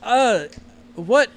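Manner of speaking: posh mum recoiling in disgust; disgusted mother. Acted.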